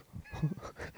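scared laugh. Retold or imitated. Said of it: "she was too scared to laugh".

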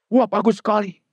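high, delighted praise; teacher praising the child to the mother, high and bright; gushing teacher. Retold or imitated. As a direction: gush like a proud teacher.

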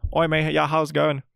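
lightly put-on Australian greeting; casual imitation of an Australian accent. Mimicking Hugh Jackman being unexpectedly Australian, light Australian accent. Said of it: "hay un cabrón que es australiano".

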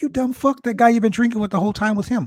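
high, laughing mock scold; high mock scold through laughter; mock scolding friend. Friend scolds him, retold.

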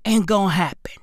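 a low taunting whisper. Acted. Taunting the IMF in a whisper. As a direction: hush it like a threat.

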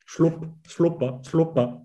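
slow, softened slapping-sandal sound; imitated flip-flop slap. Shown as a demonstration. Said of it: "ça fait le bruit".

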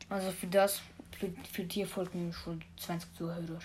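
casual Swiss German dialect. Real, not acted. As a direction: chat away in Swiss German. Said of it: "dem geilen Schweizerdeutsch, wo wir reden".

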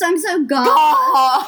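slow British "goss" with an open vowel; mock English accent. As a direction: drawl it like a London girl. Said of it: "English accents".

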